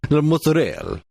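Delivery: "mozzarella" said high as mutz-uh-RELL; bastardized pronunciation. Shown as a demonstration. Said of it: "I bastardize the words that I say".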